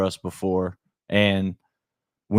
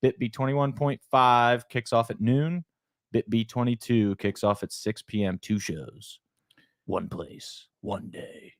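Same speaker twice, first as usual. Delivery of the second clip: monster truck voice; 2 semitones higher than usual. Acted. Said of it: "need my monster truck voice".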